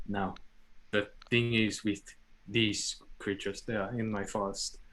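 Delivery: measured forest guardian, halting phrases; druid in character. Acted. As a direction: explain calmly in character, pausing often. Player speaks as druid character.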